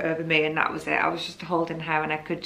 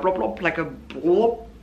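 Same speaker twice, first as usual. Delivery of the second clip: blob sound effect. Shown as a demonstration. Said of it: "only way I can describe it".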